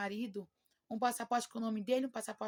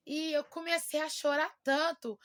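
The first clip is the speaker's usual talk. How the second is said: moved, raised voice; 5 semitones higher, 5 dB louder than usual. Real, not acted. Relembra choro, voz emocionada.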